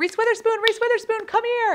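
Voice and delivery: very high, carrying call, hollered out. Retelling calling a dog out of the car windows: retelling a yell. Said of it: "started yelling out all the car windows".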